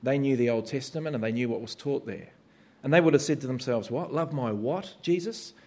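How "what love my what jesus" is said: mock disbelief, questioning rise at the end; incredulous. Jewish listener questioning Jesus' command, incredulous. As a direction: play a baffled listener querying the teaching.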